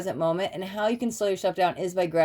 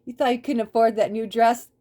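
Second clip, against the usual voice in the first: higher, louder gleeful surprise; mock delighted surprise; 5 semitones higher, 4 dB louder than usual. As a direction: act amazed at found money. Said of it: "Or just like".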